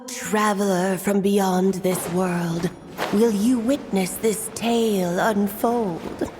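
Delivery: slow, grand mysterious narrator, lightly voiced; mysterious storyteller impression. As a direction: draw the words out like an enigmatic storyteller. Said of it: "Maybe I need to work on my impression".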